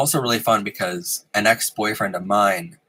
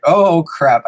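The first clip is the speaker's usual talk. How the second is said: retold alarm; 7 semitones higher, 6 dB louder than usual. Replays alarm at sister in chat.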